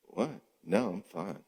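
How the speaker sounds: man voice. Retold or imitated. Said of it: "Or a man".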